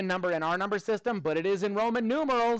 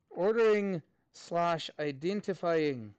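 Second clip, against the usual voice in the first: "Ordering slash identifying" said slowly as if for note-taking; slow dictation; slower than usual. Shown as a demonstration. Teacher dictating the topic for students to write down. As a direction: dictate it word by word.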